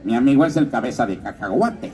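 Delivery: a hint of the cheerful red M&M; lightly voiced playful candy; mildly cartoonish candy voice. Shown as a demonstration. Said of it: "que de repente diga".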